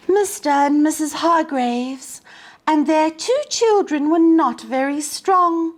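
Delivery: put-on lively storybook narration for young listeners; reading to children. A narrator's reading. Teacher reading a picture book to children, lively storybook voice. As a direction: read it like story time on the rug.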